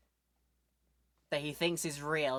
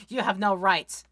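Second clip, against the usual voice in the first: defiant; 3 semitones higher, 5 dB louder than usual. Pretend. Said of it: "say it right to his face".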